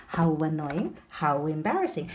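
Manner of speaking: "How annoying, how embarrassing" with w glides after How; linked W sound. Shown as a demonstration. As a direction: link How to each vowel with w. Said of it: "the W with the vowels".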